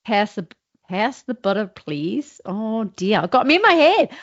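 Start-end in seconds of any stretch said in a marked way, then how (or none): 0.0-2.4 Australian trying American; attempted American accent. Shown as a demonstration. Student showing the dialect coach, attempted American accent. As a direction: have a tentative go at an American accent. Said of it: "So American first for you".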